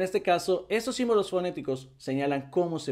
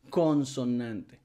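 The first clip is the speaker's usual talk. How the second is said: emphatic syllables; 3 semitones lower, slower than usual. Shown as a demonstration. Teacher spells out key word.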